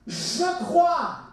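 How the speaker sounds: high, loud exclamation of faith; impulsive, unthinking. Acted. Father of the child crying out to Jesus, impulsive. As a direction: cry it out on the spur of the moment. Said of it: "c'est presque irréfléchi".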